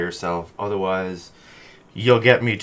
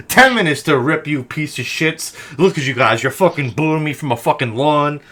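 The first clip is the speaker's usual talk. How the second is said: mock rant. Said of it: "He's like".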